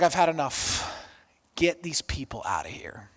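drops to a low whisper; lightly voiced fed-up Pharaoh; weary dismissal. Pharaoh sending the people away, hushed whisper.

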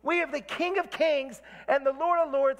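high, rising preacher fervor; fired up. Real, not acted. Preacher cheering up downcast people, fired-up proclamation. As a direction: proclaim it like a rallying cry. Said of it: "I'm getting all fired up".

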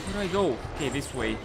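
very soft tense hush. Real, not acted. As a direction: keep it down while hiding. Hiding from monster.

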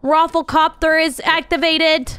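slow, booming robot announcer voice; cosplaying a Rafflecopter. Streamer hamming it up as a Rafflecopter to friends, slow menacing announcer voice. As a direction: announce doom like a battle machine. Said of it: "I was cosplaying a Rafflecopter".

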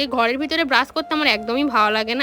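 talking with a toothbrush in mouth; while brushing teeth. Real, not acted. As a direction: speak mid-brush, mouth foamy. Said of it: "বাইরে এসে brush করছি".

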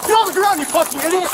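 furious yelled command, very high and loud; angry shout. Real, not acted. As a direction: bark the order at full force. Officer tackles suspect at gunpoint.

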